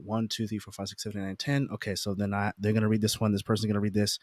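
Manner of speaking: counting under the breath, softly; quiet counting. Retold or imitated. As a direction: mutter the count to yourself.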